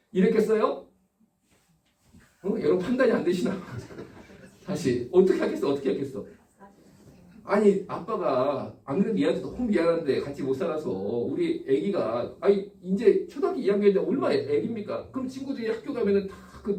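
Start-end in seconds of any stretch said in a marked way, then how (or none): none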